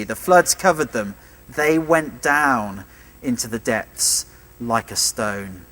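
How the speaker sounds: slow, deliberate reading of the verses; scripture reading. Acted. Preacher reading Exodus fifteen to listeners, slow and deliberate. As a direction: let each image sink in slowly.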